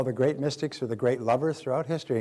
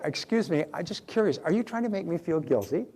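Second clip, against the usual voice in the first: curious innocent tone; 4 semitones higher than usual. Shown as a demonstration. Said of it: "So you just say".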